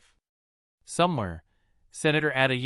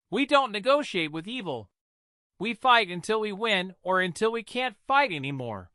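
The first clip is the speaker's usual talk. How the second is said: put-on mother telling old wisdom; 6 semitones higher than usual. A narrator's reading. Mother telling her daughter the grandfather's saying, solemn.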